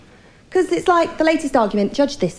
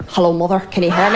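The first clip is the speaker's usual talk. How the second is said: put-on Irish girl; 6 semitones lower than usual.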